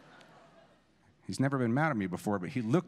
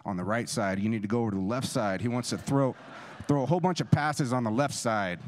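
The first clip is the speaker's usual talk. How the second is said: louder, rising call across the field; mild mock yell from the sideline; yelled instructions; 3 semitones higher, 5 dB louder than usual. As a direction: shout it across a hot practice field. The speaker yelling across field.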